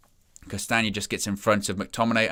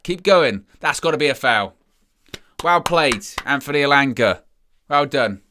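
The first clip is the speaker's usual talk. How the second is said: excited cheering; 3 semitones higher, 5 dB louder than usual. Real, not acted. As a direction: cheer him through the run. Elanga dribbling past the fullback.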